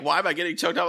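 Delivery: put-on high-pitched whiny teen girl voice; mock teenage daughter protesting; imitating daughter. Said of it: "she's, like, hitting me, like".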